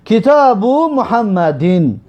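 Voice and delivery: slow, syllable by syllable: کتاب محمدین with the ending 'in' voiced; Arabic case ending. Shown as a demonstration. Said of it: "پس ببینید". (آهسته با اعراب عربی)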